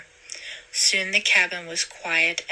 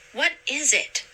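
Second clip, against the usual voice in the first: shouted; 8 semitones higher than usual. A narrator's reading. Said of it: "someone shouted".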